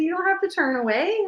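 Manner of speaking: high, tender coaxing; retold consoling voice; gentle reassurance. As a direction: comfort someone who is crying. Retelling comforting a crying woman.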